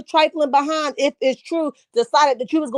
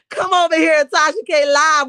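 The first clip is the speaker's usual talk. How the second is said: higher, laughing invitation; laughing call-out; 4 semitones higher than usual. Real, not acted. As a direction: call her over while laughing. Laughing at Tasha K quote.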